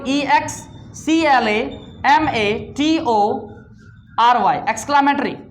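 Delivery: E X C L A M A T O R Y, each letter said slowly, then the whole word; spelled out letter by letter. Shown as a demonstration. Teacher spelling exclamatory for students, slow separate letters. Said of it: "The fifth one is exclamatory".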